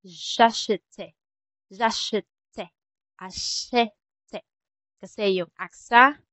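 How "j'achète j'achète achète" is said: "achète" with a wide-open eh, a-sheh-te; "Achète" broken up to show the open eh. Shown as a demonstration. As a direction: say "J'achète" in separated syllables, opening the è. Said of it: "pa-open wide".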